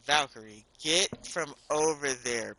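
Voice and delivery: loud, impatient commands. Real, not acted. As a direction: yell at the character to move. Ordering the game character.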